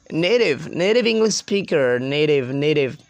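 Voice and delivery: American "native", like "nay-div"; American pronunciation. Shown as a demonstration. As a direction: flap the T in "native", American-style. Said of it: "Americans say native".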